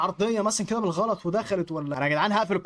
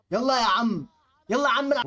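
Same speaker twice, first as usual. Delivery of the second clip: raised, loud, high exasperation; exasperated outburst; 5 semitones higher, 5 dB louder than usual. Real, not acted. Gamer fed up after another goal against him, exasperated outburst. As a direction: snap at the game, louder and higher.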